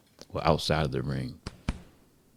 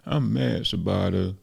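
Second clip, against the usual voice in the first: lightly voiced frustrated boxer, pitched up; slower than usual. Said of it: "Ruben was looking real frustrated".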